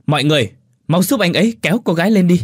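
high, loud, fast shout to the crowd; rally the bystanders urgently; shouted order to pull her up; loud command. Acted. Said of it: "Anh hô lớn".

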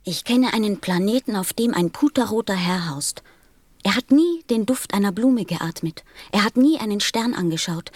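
mild indignation. Acted. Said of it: "ganz blass vor Zorn".

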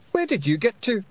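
high, loud Scottish shout; Feegle shout. A narrator's reading. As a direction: yell up at her from below. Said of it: "shouted Rob Anybody".

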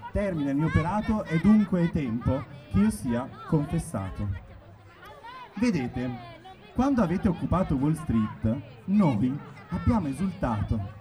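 rising, declaimed performance poem; slam poetry. Acted. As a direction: build up like a slam poet. Performs second satirical poem. (declamazione da poetry slam)

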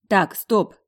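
high, loud call to halt; firm interruption. A narrator's reading. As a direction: break in loudly to stop them. Narrator steps between quarrelling pair. (громко и решительно прервать)

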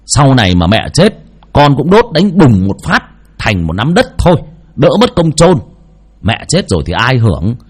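angry son yelling at his mother; son shouting. A narrator's reading. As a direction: spit it out in contempt. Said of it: "thằng Phát gào lên".

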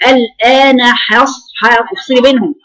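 الآن حص said very slowly, the ح and ص split apart; separated and slow. Shown as a demonstration. Teacher shows how to separate ha and sad. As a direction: pull the sounds apart slowly. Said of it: "الاستعلاء".

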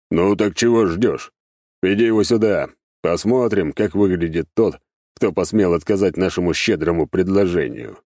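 lightly voiced demon master giving orders; demon boss. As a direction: order the guest in with some relish. (слегка обозначенный голос властного беса)

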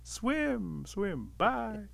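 high shout fading to a singsong farewell; high holler dropping away in volume; calling after someone. A narrator's reading. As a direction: start yelling, then ease off as they leave. Rabbit calling after departing Otter.

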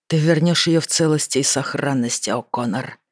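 words pushed through clenched teeth; through gritted teeth. Acted. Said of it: "сказал он сквозь зубы".

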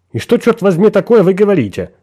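surprised demand. A narrator's reading. Friend woken by a strange call, surprised and demanding. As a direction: demand an answer in shock. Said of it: "потребовал удивлённый голос Грена".

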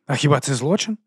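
mildly taken-aback question; a touch of bewilderment; stunned. Acted. Sergeant asks his captain about a crime, mildly stunned. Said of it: "ошелешено запитав сержант".

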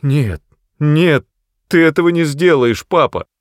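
high, frightened begging; pleading son. Acted. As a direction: plead in panic with father. Matt pleads in fear. (испуганная мольба сына)

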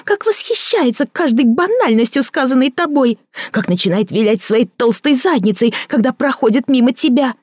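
a bitter woman mocking her lover; Victoria mocking. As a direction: sneer at his fancy words. Victoria jealous tirade.

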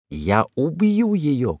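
high, drawn-out murderous scream. A narrator's reading. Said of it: "кричала Эйлин". (яростный крик)

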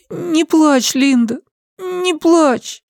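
put-on high little boy voice; comforting child. A narrator's reading. The boy comforts crying Linda, high and pleading. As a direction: soothe her like a small child. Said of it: "Он прижался к ней".

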